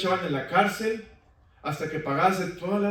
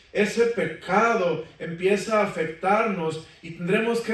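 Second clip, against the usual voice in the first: raised, pressing sermon delivery; preaching; 2 semitones higher than usual. Acted. Preacher urging his congregation about sin's debt, fervent sermon voice. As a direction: press the sin's cost on the brethren.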